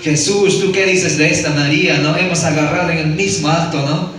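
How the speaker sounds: lightly voiced scornful accusers, half-hearted yell; retelling the Pharisees' challenge, mildly mock shouted; mild mock accusing shout. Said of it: "los fariseos le gritaron".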